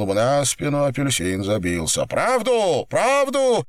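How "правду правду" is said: high-pitched insistent demand; angry demand. Acted. Captor interrogates scalded man, angry high demand. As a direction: hammer out the demand, pitch climbing.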